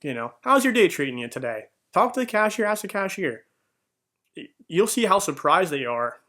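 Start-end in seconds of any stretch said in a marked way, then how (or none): 0.0-1.6 friendly greeting. Shown as a demonstration. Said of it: "just, just say".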